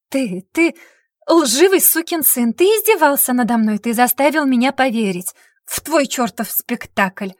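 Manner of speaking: choking angry outburst; furious accusation. Acted. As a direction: spit out the insult. Heroine rages at Kris.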